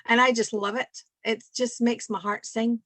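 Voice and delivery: broad Aberdeen accent put on for a laugh. Asked by Joey and Yvonne, she puts on an Aberdeen accent. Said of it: "You mean you want me to put on an Aberdeen accent?".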